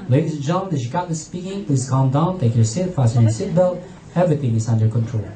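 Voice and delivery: very low pilot announcement; steady, in-control voice over the cabin; composed captain. Retold or imitated. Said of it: "if somebody's in control, you will feel okay".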